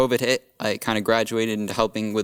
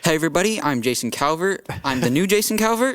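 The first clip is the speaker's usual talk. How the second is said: mock host greeting; 5 semitones higher than usual. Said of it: "I might replace you".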